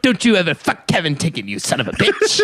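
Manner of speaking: hammed-up pimp bragging through laughter; Jack Lemmon as pimp. Jealous pimp recounting revenge to his friend, hammed-up pimp. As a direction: play a mock-indignant pimp telling his tale. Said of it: "this character is Jack Lemmon if he was a pimp".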